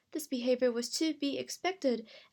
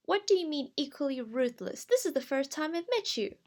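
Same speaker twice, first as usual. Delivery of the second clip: higher, indignant objection; indignant protest; 4 semitones higher, 3 dB louder than usual. Acted. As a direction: protest as if unfairly accused. Crystal protests to the voice.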